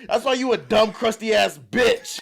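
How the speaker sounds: mock yell. Roasting the heckler from stage, a mild mock yell. Comic's retold comeback to heckler.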